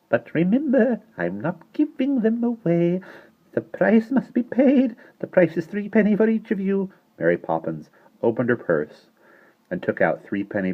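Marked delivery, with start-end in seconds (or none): 0.1-6.9 put-on serious old woman. A narrator's reading. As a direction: state the price gravely. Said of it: "her face grew serious".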